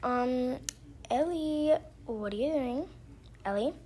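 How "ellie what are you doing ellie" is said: put-on raised, louder call for a child. Mom calls Ellie from outside her room, calling out. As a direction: call the name out higher and louder.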